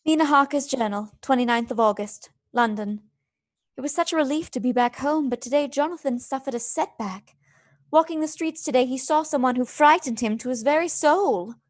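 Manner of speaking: even storytelling read of a diary entry; journal narration. Acted. Mina reading her journal entry as narration.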